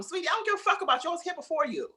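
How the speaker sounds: quick, high, dismissive "Sweetie" brush-off; sassy telling-off. Retold or imitated. To the other woman, a fast sassy brush-off. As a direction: rattle it off fast and high to put her in her place.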